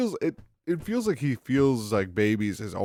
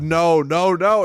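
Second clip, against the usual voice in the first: louder, rising mock panic; freaking out; 5 semitones higher, 5 dB louder than usual. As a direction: imitate a frantic creator losing it. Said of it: "he's, like, freaking out".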